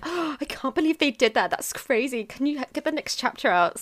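shocked reader. Retold or imitated. Acting out shocked readers' comments.

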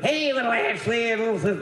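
high-pitched imitation of a jolly Santa; Brooks. Santa hailing two little sisters, high jolly voice. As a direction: hail the kids as Santa. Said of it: "that's how he talked".

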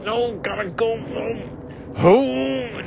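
high, slow whining plea; high whiny drunk plea; high wail. Acted.

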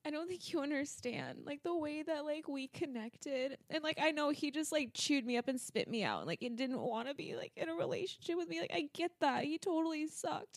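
tearful. Real, not acted. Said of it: "You're gonna make me cry".

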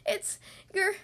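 put-on loud, high childish tantrum; too angry to continue. A narrator's reading. Little rabbit yelling at his mother, sputtering angrily. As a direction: sputter in outrage, breaking off mid-sentence. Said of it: "he was too angry to continue".

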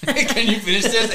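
retold request. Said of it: "we're like".

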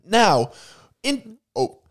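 broad Aussie pitchman; hammed-up Australian commercial voice; Australian accent. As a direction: put on an Aussie accent for a mock ad.

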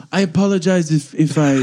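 halting apology in mock French accent; fake French accent. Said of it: "it was like my French accent now".

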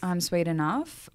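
slow, soft dad joke delivery; embarrassing dad joke. Retold or imitated. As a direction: drawl the pun out slowly. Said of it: "the jokes that all your boomer parents do".

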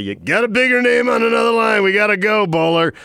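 urgent call-out. Retold or imitated. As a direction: hurry them off the line. Retelling the rush to hang up.

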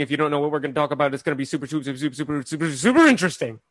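rapid-fire auctioneer patter. Pretend. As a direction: rattle it off like an auctioneer. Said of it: "That was my auctioneer voice".

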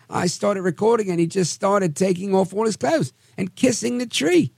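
high mock British accent; hammed-up British eyewitness. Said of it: "I have to do it in my British accent".

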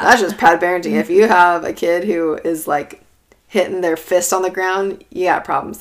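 loud, scornful know-it-all; judgmental scoff. Retold or imitated. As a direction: scoff like a smug non-parent. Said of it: "I thought tantrums were just disrespectful".

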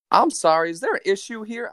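put-on high-pitched, half-committed New York jive accent. Train conductor confronting two passengers, sassy New York jive accent. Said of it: "trying to do an accent".

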